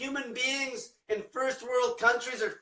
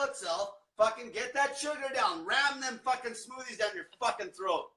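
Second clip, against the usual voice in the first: a hint of a pushy doctor, pitched higher; lightly voiced pushy doctor ordering sugar; mocking doctor; 3 semitones higher than usual. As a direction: sneer while imitating the doctor's advice. Mocks doctors force-feeding patients.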